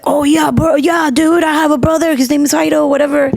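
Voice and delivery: a hint of a laid-back dude; imitating Jairo. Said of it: "he's like".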